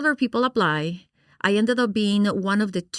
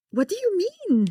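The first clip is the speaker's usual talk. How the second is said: higher, incredulous mock protest; hammed-up shocked question, pitched up; indignant disbelief; 12 semitones higher than usual. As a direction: play up the outrage at the verdict. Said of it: "which I was like".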